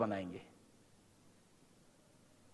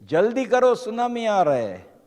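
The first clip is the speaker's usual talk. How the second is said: raised, higher-pitched warning call; acted distant call; 4 semitones higher than usual. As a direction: imitate someone calling urgently from far away. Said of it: "कोई चिल्ला रहे है दूर से".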